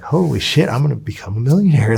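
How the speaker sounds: thrilled disbelief at sudden riches; excited outburst. Retold or imitated. Retelling his thrill at becoming a millionaire, excited outburst.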